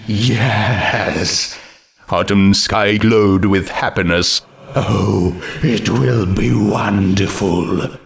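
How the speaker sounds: character voice. Acted. Autumn Sky character voice.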